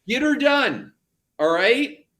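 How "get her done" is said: NASCAR slogan. Retold or imitated. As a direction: echo the folksy NASCAR cheer, pitched higher. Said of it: "to borrow an American expression".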